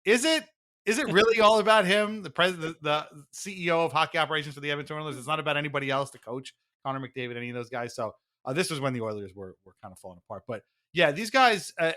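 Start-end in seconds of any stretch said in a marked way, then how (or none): 0.0-7.9 incredulous mock question. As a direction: scoff at the idea in disbelief. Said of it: "being like".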